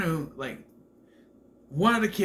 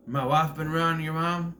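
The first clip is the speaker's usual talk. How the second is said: Keanu confronting; 2 semitones higher, 4 dB louder than usual. Retold or imitated. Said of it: "Keanu confronts this kid, and he's like".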